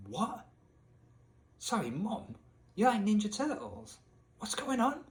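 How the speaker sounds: retold bewilderment, voice jumping up; baffled disbelief. Son to his mum about her film taste, baffled.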